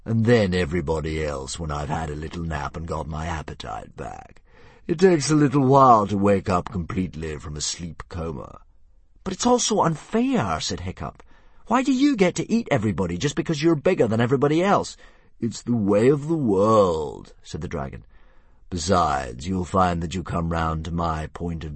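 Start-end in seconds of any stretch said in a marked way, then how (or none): 0.0-8.6 a lazy monster toying with prey; dragon voice. Acted. 9.2-10.6 put-on high, indignant boy's voice; a boy crying out at injustice; protesting boy. Hiccup protests to the dragon. 11.7-15.0 put-on high, fast, indignant boy. Hiccup protests to the dragon. 15.4-17.3 slow, grand dragon; a lazy monster toying with prey. Acted. Narrator voices the dragon.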